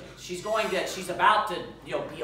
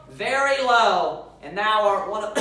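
louder and higher, slow lament for his daughter; grieving father's cry; 3 semitones higher, 6 dB louder, slower than usual. Acted. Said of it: "he rent his clothes and said".

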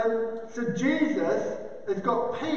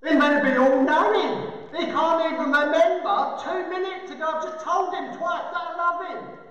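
exasperated complaint, pitched up; acted indignant grievance; fed up; 3 semitones higher than usual. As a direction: rant like someone who has had enough. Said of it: "Peter's getting fed up".

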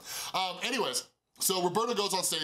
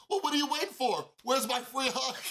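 playful demand; 10 semitones higher than usual. Retold or imitated. Asking for a free hug.

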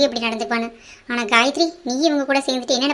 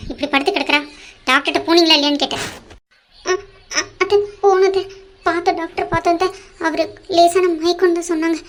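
higher, pleading fast to the aunt; frightened pleading; 3 semitones higher than usual. Acted. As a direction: beg the aunt nervously, voice raised. Niece pleads with angry aunt.

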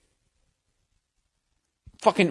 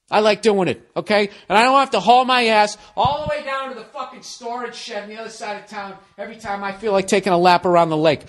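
mock husband rant; 4 semitones higher than usual. Acted quarrel, husband ranting.

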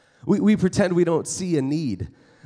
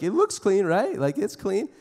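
put-on kid making excuses; 4 semitones higher than usual. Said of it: "you're like".

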